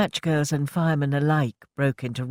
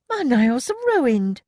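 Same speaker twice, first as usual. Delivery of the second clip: slow, high moan; 10 semitones higher, 4 dB louder, slower than usual. A narrator's reading. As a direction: moan about ruined nails. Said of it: "she moaned".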